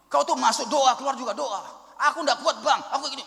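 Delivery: mock the brother's frustrated rant; angry outburst. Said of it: "marah-marah, marah-marah dia". (adik yang marah-marah diperankan)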